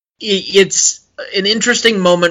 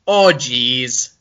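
put-on Minnesota accent; 2 semitones lower than usual. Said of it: "let's call them the accent lines".

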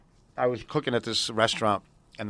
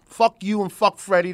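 angry curse; 8 semitones higher, 5 dB louder than usual. Retold or imitated. Ex-boyfriend cursing the boss.

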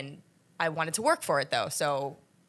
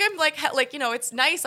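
tearful retelling; 10 semitones higher, 5 dB louder than usual. Retold or imitated. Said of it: "crying, like, sobbing".

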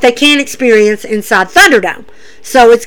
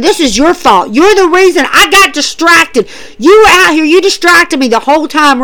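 raised, accusing retelling; mild mock blame; 4 semitones higher than usual. Charlotte blames Rhea for distracting her, mock accusation.

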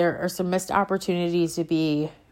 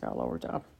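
much lower, softer put-on voice; deep mock voice; 13 dB quieter, much faster than usual. Shown as a demonstration. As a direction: repeat it in a deep goofy voice. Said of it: "I just got a little worked up".

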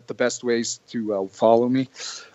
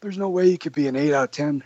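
imitating Johnny; 5 semitones higher than usual. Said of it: "Johnny goes".

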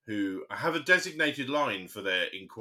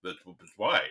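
lower-pitched mock policeman, lightly voiced; put-on police officer; 4 semitones lower than usual. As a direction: lightly imitate a puzzled, stammering officer. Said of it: "I don't know why I made him sound like that".

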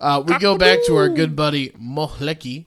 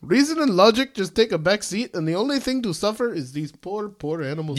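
Pedro voice; 4 semitones higher than usual. Retold or imitated. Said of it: "You literally sound like Pedro from fucking Napoleon Dynamite".

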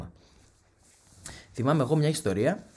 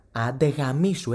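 rude retort; 3 dB louder, slower than usual. Pretend. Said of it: "έτσι πάει σχολή".

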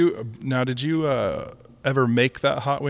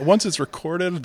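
laughing; 6 semitones higher than usual. Real, not acted. Repeats the line while laughing.

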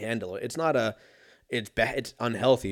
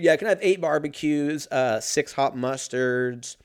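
higher, sheepish drive-thru order; sheepish customer; 3 semitones higher, 4 dB louder than usual. Retold or imitated. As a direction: order like you know it's too much.

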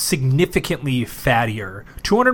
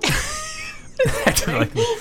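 mocking imitation; slower than usual. Mocking Steve's remark.

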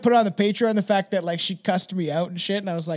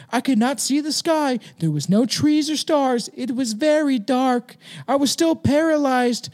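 put-on sixteen-year-old kid; 3 semitones higher than usual. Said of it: "He's a fucking sixteen-year-old kid".

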